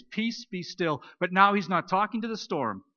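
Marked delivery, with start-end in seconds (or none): 0.0-1.0 slow, steady and calm, each word given weight; calm command. Acted. Preacher voicing Jesus to the storm, slow and calm. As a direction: speak peace over the storm, unhurried. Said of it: "he says exactly the same words".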